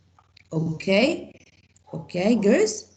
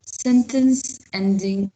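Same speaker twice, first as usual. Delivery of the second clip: slow teaching emphasis; 3 dB louder, slower than usual. Shown as a demonstration. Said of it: "teacher stresses the term".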